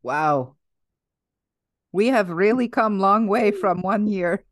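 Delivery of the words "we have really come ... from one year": mock-earnest Russian accent; put-on Russian accent. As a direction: sum up in a comic Russian accent. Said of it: "your alter ego of Russian".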